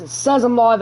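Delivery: put-on a light, slipped-in Aussie accent on "live". Streamer greeting his live viewers, in a light mock Aussie accent. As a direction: say it like a laid-back Australian, half joking. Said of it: "I went into an Aussie accent".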